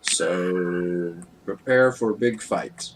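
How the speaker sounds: lightly voiced simple fighter; Fergarg the broken-speech character. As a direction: give a hint of a simple brute warning of trouble. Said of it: "Fergarg's gonna be like".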